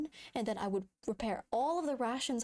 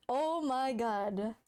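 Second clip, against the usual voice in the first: stunned; 3 semitones higher, slower than usual. Real, not acted. Stunned, drawn out.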